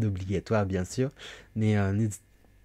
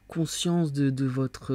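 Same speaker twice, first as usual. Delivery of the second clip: whisper; 4 semitones higher, slower than usual. Real, not acted. Searching for word, hushed.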